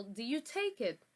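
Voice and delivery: "Do you take it?" said as a question, pitch rising at the end; rising intonation. Shown as a demonstration. Teacher's example of a yes-no question for the class. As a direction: let the voice rise on it. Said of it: "rising intonation".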